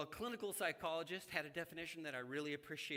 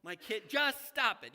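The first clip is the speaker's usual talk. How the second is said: imitated yell; 6 semitones higher, 10 dB louder than usual. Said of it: "he yells at them".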